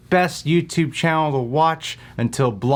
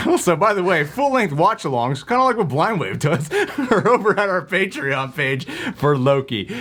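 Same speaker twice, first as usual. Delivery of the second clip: laughing; 6 semitones higher than usual. Real, not acted. Laughing through Patreon plug.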